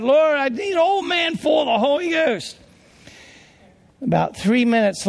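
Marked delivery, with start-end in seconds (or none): 0.0-2.6 put-on desperate prayer with Lord, I need an old man full of the Holy Ghost called out high; crying out. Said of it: "So I'm crying out to God".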